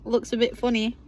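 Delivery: numb mouth, slightly slurred; talking through a numb mouth; numb from the dentist. Real, not acted. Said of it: "This part of my mouth is all numb".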